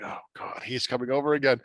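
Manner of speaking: hushed, breath-led "oh God" of annoyance; imitated exasperated aside; mock dread. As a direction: groan it under your breath as the put-upon wife. Snooty wife dreading gadfly's visit.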